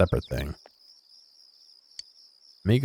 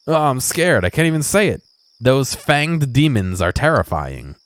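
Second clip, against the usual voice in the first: mock terror; 6 semitones higher than usual. Voicing scared groom, fear of cats.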